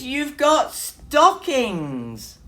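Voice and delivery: high, loud excited mouse voice; excited cry. A narrator's reading. Mouse cries out excitedly to Bear about the stockings. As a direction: squeal with delight. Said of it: "he cried".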